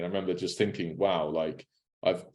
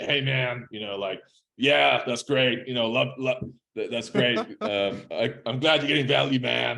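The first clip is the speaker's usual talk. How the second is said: put-on husky voice, slightly pitched up; 5 semitones higher than usual. Retelling what one of his heroes said on meeting him, imitating his husky voice. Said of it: "he does his husky voice".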